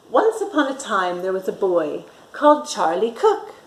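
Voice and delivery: put-on lively read-aloud for children; storytime narration. A narrator's reading. Teacher reading a picture book to children, lively. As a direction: read it like a bedtime story for little ones.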